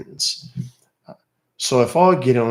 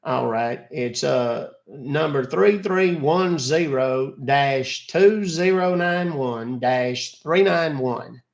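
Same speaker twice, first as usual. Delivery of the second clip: a lightly voiced, fussy old man calling about a charge; old caller Buster; 4 semitones higher than usual. Caller on scam line, a lightly voiced fussy old man. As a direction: play the confused older customer.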